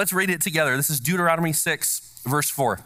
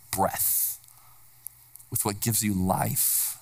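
fading hush; 6 semitones lower, 6 dB quieter, slower than usual. Acted.

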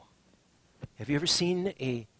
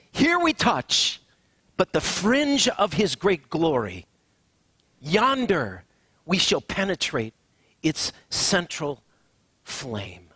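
rising preaching climax; 4 dB louder, slower than usual. Acted. Preacher lifts the quote to a climax, soaring then hushed. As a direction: build to awe and let it fade.

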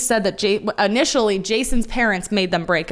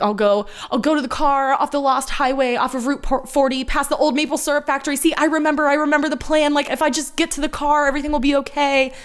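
imitating Polly; 6 semitones higher than usual. Polly voiced in recap.

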